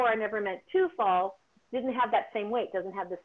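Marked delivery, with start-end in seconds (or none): 0.0-1.4 "to" leaned on in a quoted line; stress on TO. Shown as a demonstration. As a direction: put the weight on "to". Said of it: "where number four".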